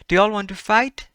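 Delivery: loud, high challenge; rowdy dare, loud and high; shouted question. Shown as a demonstration. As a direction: call it out like picking a fight.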